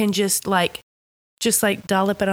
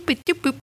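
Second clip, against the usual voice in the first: higher, bouncy little boop noises; playful boops; 7 semitones higher than usual. Shown as a demonstration. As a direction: dot out the pattern in small high boops. Imitates the tie's pattern.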